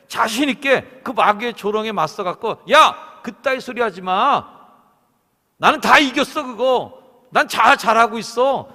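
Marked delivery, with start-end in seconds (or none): 2.7-8.7 much louder, higher defiant shout; confident shout. Pretend. Believer shouting back at the mocking devil, defiant. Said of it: "이렇게 자신 있게 외쳐야 되는데".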